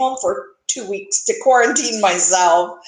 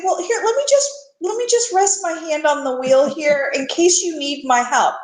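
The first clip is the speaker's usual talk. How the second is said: high sweet voice, hand on the wheel; coaxing high voice; 3 semitones higher than usual. Retold or imitated. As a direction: sweetly offer to take over. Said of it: "sometimes I just like to say".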